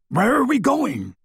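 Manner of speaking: high, puffing, breathless question; out of breath from running. A narrator's reading. Hagrid runs at Harry's heels and asks where they go, breathless. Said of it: "puffed Hagrid".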